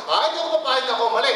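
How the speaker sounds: fast, proud brush-off; defiant refusal. Retold or imitated. Mock stubborn person refusing to say sorry. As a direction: toss it off like someone who won't admit fault.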